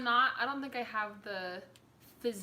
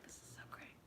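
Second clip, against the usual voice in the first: put-on South African accent; 19 dB quieter than usual. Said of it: "He says Christ like this".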